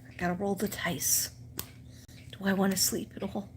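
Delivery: hushed, breathy inner voice, quickening at the end; whispered inner thought. Retold or imitated. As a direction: whisper it to yourself like a gamble. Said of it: "So I'm like".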